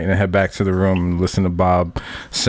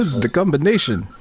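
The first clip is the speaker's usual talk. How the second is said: lightly mimicked friend, higher pitch; Einstein; 6 semitones higher than usual. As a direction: lift the voice for a mock impression. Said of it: "And Einstein's like".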